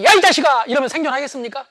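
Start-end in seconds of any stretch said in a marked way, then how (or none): 0.0-0.7 loud rough call to a friend; shouting roughly at friends. Shown as a demonstration. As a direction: bark it at a buddy. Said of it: "친구들 만날 때마다".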